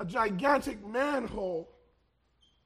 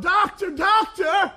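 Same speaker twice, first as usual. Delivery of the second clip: mild call for help; 5 semitones higher, 6 dB louder than usual. Retold or imitated. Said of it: "the man cries out".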